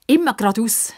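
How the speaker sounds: high, bright smiling answer; beaming. A narrator's reading. Pippa answers old man, smiling. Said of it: "strahlt über das ganze Gesicht".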